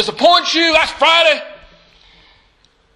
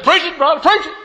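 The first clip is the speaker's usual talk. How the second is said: deacon calling out; 4 semitones higher, faster than usual. Retold or imitated.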